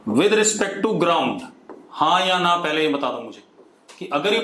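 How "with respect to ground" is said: slow dictation. Shown as a demonstration. Dictating conclusion for notes.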